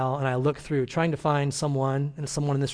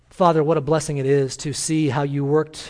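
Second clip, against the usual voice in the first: pastor opens a prayer to the congregation. Acted. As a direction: address God reverently. Leads a prayer.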